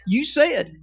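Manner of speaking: pointed, insistent You said; wife's reminder. Retold or imitated. Wife reminding her husband of his promise, insistent. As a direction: stress said, falling firmly. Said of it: "she would remind me".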